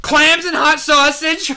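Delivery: squeaky high, slow mock customer; mocking a customer's order in a high squeak. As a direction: parody a clueless diner asking for clams.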